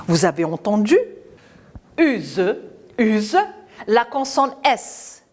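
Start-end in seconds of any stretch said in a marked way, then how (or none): 2.0-3.4 "use" ending on a voiced z. Shown as a demonstration. Teacher checks children heard it, "use" with voiced z. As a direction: repeat "use" with a buzzing z. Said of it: "Elle me donne le son Z".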